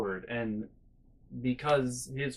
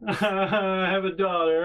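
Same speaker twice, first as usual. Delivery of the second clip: brother's wry reply; 5 semitones higher, 5 dB louder, slower than usual. Retold or imitated. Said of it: "and he's like".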